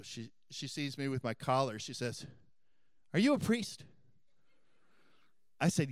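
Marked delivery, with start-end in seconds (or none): 3.1-3.8 surprised question. Retold or imitated. Lady voiced spotting his collar.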